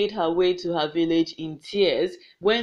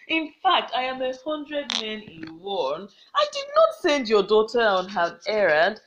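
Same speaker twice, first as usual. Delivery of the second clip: bragging. Acted. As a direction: brag like a mighty warrior. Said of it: "began to brag".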